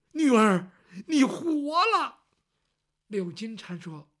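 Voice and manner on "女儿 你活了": overwhelmed father. Acted. Father sees daughter alive.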